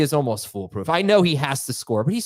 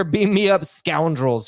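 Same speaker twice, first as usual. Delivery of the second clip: catchphrase call-out; 3 semitones higher, slower than usual. Acted. Host's catchphrase segment opener.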